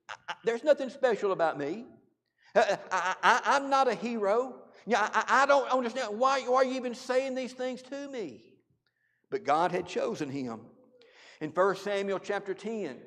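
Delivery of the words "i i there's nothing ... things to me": incredulous laughing protest. Retold or imitated. Saul protesting he is nobody.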